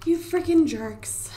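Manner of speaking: slow, voiceless whispered scold; whispered exasperated scold. Real, not acted. Annoyed at broken shower.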